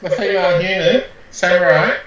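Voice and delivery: put-on high-pitched female voice; hammed-up high female samurai; best female voice. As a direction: pitch it up and swoop like a mock woman. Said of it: "That's my best female voice".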